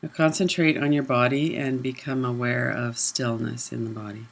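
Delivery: unhurried meditation guidance with long silences; guided meditation. Real, not acted. Leads a body awareness meditation.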